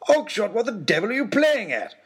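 high, loud outraged rebuke; exasperated scolding. Acted. Lord Daunt scolding Oxshott for stopping the coach, exasperated. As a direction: scold him like a fool.

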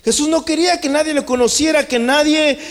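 driving preacher's proclamation; impassioned preaching. Acted. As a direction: preach it out to the congregation. Preaches at full force.

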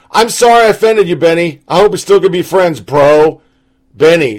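sugary fake apology; mock sweet.

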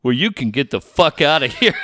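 dry, unexcited retold put-down; deadpan dismissal. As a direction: imitate a manager's deadpan kiss-off. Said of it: "just deadpan, stares at him".

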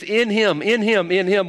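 "In him" hammered out three times, each one pressed; preacher pounding on the words "in him"; repeated emphasis. Shown as a demonstration. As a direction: drum the phrase home like a refrain. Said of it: "He keeps repeating this".

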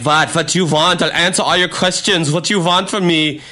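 mock German-accented English. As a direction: imitate an exasperated German exchange student. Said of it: "he's just like".

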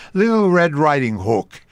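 storybook title in Jewish dialect; Jewish accent. Shown as a demonstration. Radio actor quoting a cartoonist's fairy tale, Jewish accent. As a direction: say it with an old-time Jewish accent. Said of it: "tales with a Jewish accent".

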